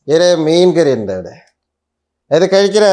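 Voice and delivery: lightly acted older friend pressing food; retold insistent host. Mimics Balachandran offering food. (നിർബന്ധിച്ച് കഴിപ്പിക്കുന്ന അനുകരണം)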